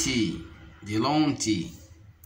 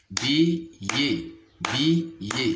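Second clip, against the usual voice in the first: "billet" cut as bi, pause, yé; syllable by syllable. Shown as a demonstration. Teacher demonstrating syllables to pupils, "billet" split in two. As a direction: say "billet" with a gap between syllables. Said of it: "se compose de deux syllabes".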